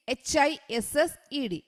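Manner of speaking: slow letter-by-letter spelling; spelled out slowly. Shown as a demonstration. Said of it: "spelling out hissed". (അക്ഷരങ്ങൾ പതുക്കെ ഉച്ചരിക്കുന്നു)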